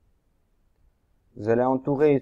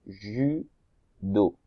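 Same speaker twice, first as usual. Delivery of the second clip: Judo said slowly as ju-do, each syllable apart; split into syllables; 3 semitones lower than usual. Shown as a demonstration. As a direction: separate the syllables of Judo for the children. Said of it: "Il y a deux syllabes".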